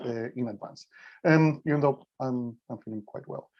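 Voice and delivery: weak voice, just getting over covid. Real, not acted. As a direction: speak with a weak, tired voice. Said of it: "my voice is going to be a little bit, um, weak".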